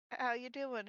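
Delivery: a hint of a robot voice. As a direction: lightly imitate a robot voice. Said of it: "in a robot voice".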